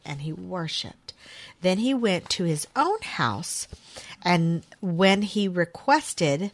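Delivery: measured Bible reading, often slow with drawn-out key words; solemn read-aloud of a Bible story; scripture reading. A narrator's reading. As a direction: read scripture aloud deliberately, pausing between phrases. Reads a Bible passage aloud.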